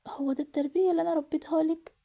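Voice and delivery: mild acted outcry, rising in pitch; anguished reproach, short of a real scream; mother's scream. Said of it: "الأم صرخت".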